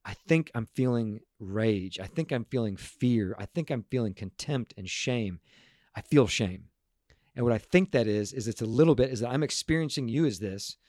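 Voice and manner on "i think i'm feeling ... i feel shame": naming feelings. Shown as a demonstration. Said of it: "but name it and go".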